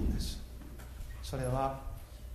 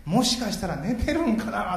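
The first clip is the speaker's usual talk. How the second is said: slower, higher teasing jibe; mocking taunt; 5 semitones higher, 6 dB louder, slower than usual. Elijah's final taunt at Baal's prophets, slow mock jibe. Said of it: "最後、極めつけですね".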